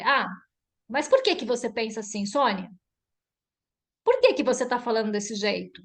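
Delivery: brisk, direct challenge; confrontational questioning. Shown as a demonstration. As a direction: question Sônia head-on, as in a demonstrated standoff. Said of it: "posso virar pra Sônia e falar assim".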